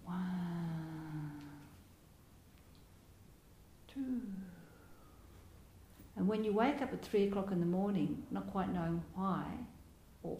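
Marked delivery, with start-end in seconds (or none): 0.0-4.2 soft counting. Shown as a demonstration. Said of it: "and practice".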